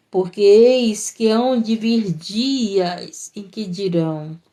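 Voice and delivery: slow, drawn-out Bible reading; scripture reading. Acted. Preacher reads Jesus' words to the women, slow scripture reading. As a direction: proclaim the verse, stretching key words.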